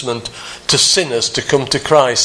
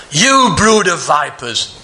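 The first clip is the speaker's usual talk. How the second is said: venomous; 2 semitones higher, slower than usual. Shown as a demonstration. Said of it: "with venom in his voice".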